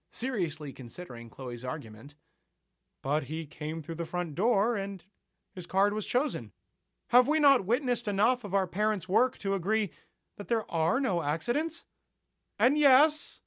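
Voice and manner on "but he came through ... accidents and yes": high, loud, measured sermon tone; preachy host. Acted. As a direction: win the crowd over like a preacher. Host persuading the crowd.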